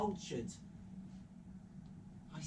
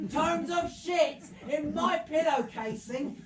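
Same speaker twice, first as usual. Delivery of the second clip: high, loud mock outrage; outraged wife; 11 semitones higher, 8 dB louder than usual. Historian mimics his wife complaining about his books, outraged. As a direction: imitate an exasperated wife, pitched well up. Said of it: "She called them tomes of shit".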